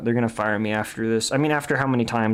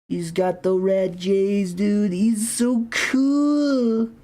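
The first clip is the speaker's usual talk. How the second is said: silly high voice; 6 semitones higher than usual. Pretend. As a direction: go way up into a giddy cartoon squeal. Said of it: "Why am I talking like this?".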